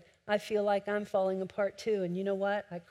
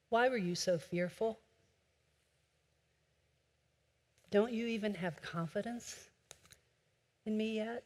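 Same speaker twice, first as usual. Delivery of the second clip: hushed questions with long pauses; soft reproach; 7 dB quieter than usual. Acted. Preacher voices Jesus questioning the disciples, softly reproachful. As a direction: ask softly and let each question hang.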